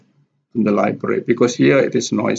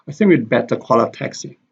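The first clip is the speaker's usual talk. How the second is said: quick "I", "we'd", "a", stressed "think", "better", "call", "taxi"; "I" unstressed; faster than usual. Shown as a demonstration. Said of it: "The word I here is not stress".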